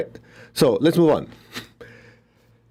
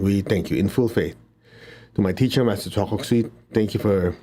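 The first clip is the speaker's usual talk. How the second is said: invocation prayer; 2 semitones lower than usual. Acted. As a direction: humbly call on the masters and angels.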